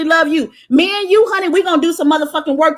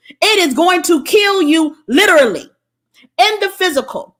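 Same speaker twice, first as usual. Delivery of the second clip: emphatic shout; 4 semitones higher than usual. Real, not acted. Heated warning about relationships.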